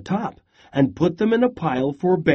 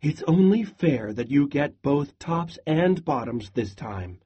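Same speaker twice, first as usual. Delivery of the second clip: sighing. Acted. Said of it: "sighed Hare".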